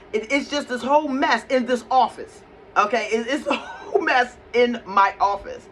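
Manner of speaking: laughing at the mess. Real, not acted. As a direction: laugh at how messy it all got.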